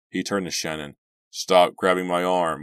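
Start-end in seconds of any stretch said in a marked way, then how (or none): 1.3-2.6 louder, slow irritated warning; irritated snap. Acted. Driver telling girlfriend to stop grabbing him, irritated. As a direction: snap at her to let go.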